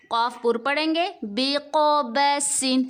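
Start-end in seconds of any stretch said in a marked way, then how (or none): 1.2-2.9 بقبسن slow with a whistling س; whistling sin. Shown as a demonstration. Teacher showing the whistle of sin in بقبسن. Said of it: "سین میں سیٹی کی آواز نکالیں گے".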